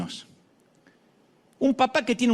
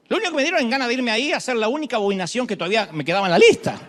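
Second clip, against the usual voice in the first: laughing punchline; 2 semitones higher, 4 dB louder, faster than usual. Real, not acted.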